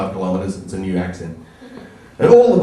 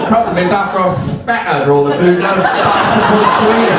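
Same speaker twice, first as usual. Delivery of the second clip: Jamie Oliver. Retold or imitated. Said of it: "This is Jamie Oliver here".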